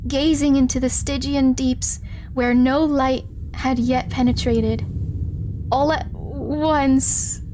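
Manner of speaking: measured, unhurried reading of a horror tale; lightly dramatic storybook reading; story narration. Acted. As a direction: read it like an old weird tale, slowing on key phrases. Reads the game's story text.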